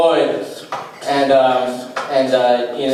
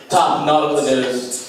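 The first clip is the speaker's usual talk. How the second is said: slow pun reveal. Shown as a demonstration. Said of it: "a new segment that's called".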